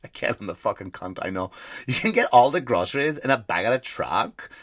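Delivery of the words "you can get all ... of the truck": lightly faked ditzy ad woman; horrible woman impression. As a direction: gush about shopping in a badly faked woman voice. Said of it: "This is my horrible woman impression".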